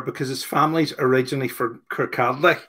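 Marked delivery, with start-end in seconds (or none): 1.9-2.6 "Kirkcaldy" read as spelt, l audible; mispronounced place name. Real, not acted. Host reading out a listener's family town, mispronouncing "Kirkcaldy" with an l. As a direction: say "Kirkcaldy" with the l sounded, kur-KAL-day. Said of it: "I'm not saying it right".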